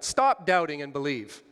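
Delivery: put-on loud, clipped like a scolding child; a sulky rebuke; petulant rebuke. Shown as a demonstration. Preacher voicing Jesus to Thomas, mild petulant rebuke. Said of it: "in a tone sort of like what I just said".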